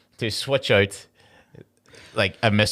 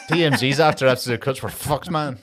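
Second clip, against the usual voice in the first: mock worry through laughter; amused, laughing retelling; 3 semitones higher than usual. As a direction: crack up while acting out the line. Repeats joke quote while cracking up.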